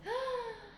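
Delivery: sharp surprised gasp. Shown as a demonstration. Teacher gasping at the picture for the class.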